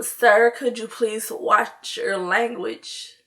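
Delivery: put-on slow, courteous old lady asking; polite request. Old lady asks nail tech to mind his cursing, politely. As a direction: ask politely, taking your time. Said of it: "she was not rude about it. She was so polite".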